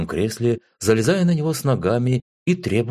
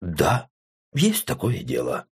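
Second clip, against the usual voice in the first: смущённо; 4 semitones lower, much slower than usual. A narrator's reading. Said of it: "смутился я и сумбурно добавил".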